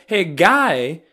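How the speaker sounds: lightly voiced lecture to a newcomer; mock scolding. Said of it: "it's like".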